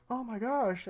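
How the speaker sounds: gasping, high-pitched mock shock; retold shock. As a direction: act out a character's startled reaction. Acting a character's shocked reaction.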